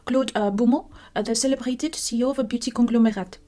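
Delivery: mild put-on French accent, reading dramatically; lightly French-flavoured story reading. Reading the murder story aloud in a mild French accent. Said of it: "I have to read it in a French accent".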